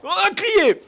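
sudden high, loud cry; excited yell. Real, not acted. Gamer yelling at his game, high and loud. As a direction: yell it out at the screen.

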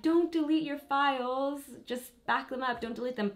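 leggera imitazione di chi commenta, tono più acuto; imitated commenters. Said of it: "a few comments saying".

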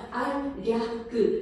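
알, 야, 그 in separate syllables; pronunciation demo. Shown as a demonstration. Teacher showing how it is pronounced, syllable by syllable. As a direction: give 알, 야, 그 one syllable at a time. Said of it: "이렇게 발음되는 거야".

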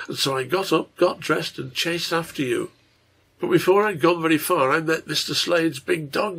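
put-on earnest little girl telling her dream; a hint of a breathless young storyteller; lightly voiced child Mary. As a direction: recount it eagerly, with lilting emphasis.

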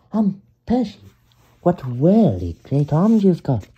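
squeaky admiring little engine; high Percy voice. Acted. Percy answers Harold.

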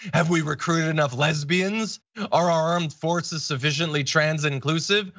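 hint of a sneering pundit asking loaded questions; mock sarcasm. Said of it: "He's being sarcastic".

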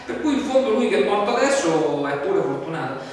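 loud, brash, mocking what he would never say; mock callous Jesus. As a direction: ham up a tactless comforter. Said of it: "oppure non gli dice".

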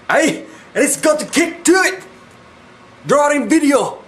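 put-on high, comic East Asian accent. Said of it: "Why do I sound Asian?".

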